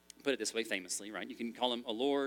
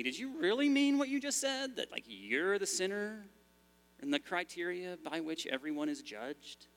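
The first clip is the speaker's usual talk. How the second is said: much higher, startled questioning voice; incredulous listener; 5 semitones higher than usual. Acted. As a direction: play a shocked churchgoer asking if he meant it. Imagined listener questioning the pastor.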